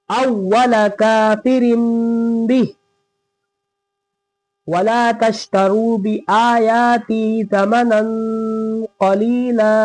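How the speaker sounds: slow, drawn-out melodic recitation; Quran recitation. Shown as a demonstration. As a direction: chant each word slowly and evenly.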